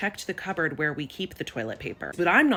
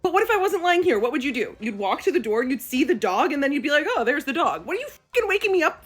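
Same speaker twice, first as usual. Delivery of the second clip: high, loud venting; exasperated rant; 8 semitones higher, 5 dB louder than usual. Real, not acted. Pregnant daughter ranting about her dad waking her. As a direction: rant at him like he's impossible.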